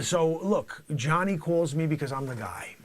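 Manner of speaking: high, loud brash drug dealer; shouty comic dealer character; loud hammy dealer. Acted. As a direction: play the swaggering dealer big.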